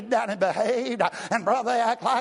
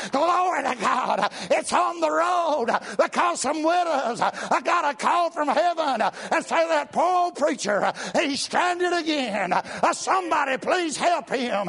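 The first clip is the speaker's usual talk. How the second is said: half-shouting praise to God; joyful preacher's holler; near shout; 6 semitones higher than usual. Retold or imitated. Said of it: "I just about shout".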